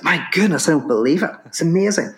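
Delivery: high-pitched retold astonishment; amazed. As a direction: marvel at an unbelievable win. Retold amazement at winning the hand.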